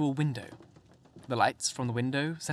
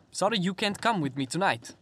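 calling out; 6 semitones higher than usual. A narrator's reading. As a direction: call it after him across the room. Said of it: "called the general".

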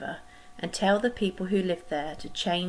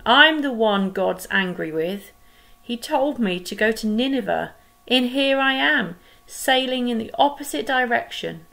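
groaning; 4 semitones higher, 6 dB louder than usual. Acted. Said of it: "Jonah groaned".

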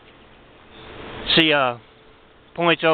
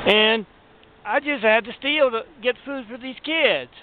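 higher, pleading put-on voice of a crying mother; tearful plea; 5 semitones higher than usual. Crying mother begging security guards, pleading. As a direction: beg the guards with fake tears, pitched up.

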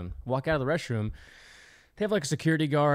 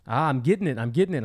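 imitated Jamaican accent; retold Jamaican accent; thick Jamaican-style accent. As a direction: mimic a Jamaican man learning. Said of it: "Jamaican, some kind of accent".

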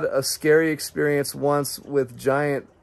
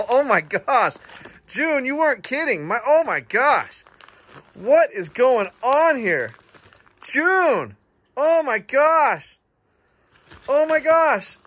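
much higher, drawn-out oh my gosh; overwhelmed delight; 9 semitones higher, slower than usual. Real, not acted. Gushing to June, stunned by the gifts. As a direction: gush slowly, stunned with joy.

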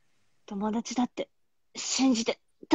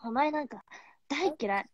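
tsundere; 4 semitones higher, 5 dB quieter than usual. Pretend. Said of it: "ツンデレで".

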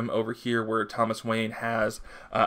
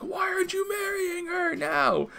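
mock whisper. Batman voiced, mock whisper.

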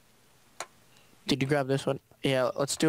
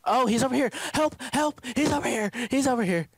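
urgent calling out; 9 semitones higher than usual. Real, not acted. Being shot at, calling out.

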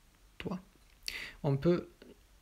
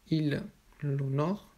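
"il l'honore" slow, with the L of "l'honore" held; emphasis on elision; slower than usual. Shown as a demonstration. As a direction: linger on "il l'" before "honore". Teacher models elided pronoun. (prononcer lentement « il l'honore » en allongeant le L)

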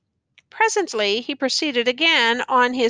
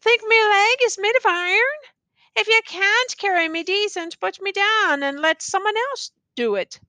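bellowing; 9 semitones higher than usual. A narrator's reading. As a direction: roar at the crowd in pain and rage. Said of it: "he bellowed".

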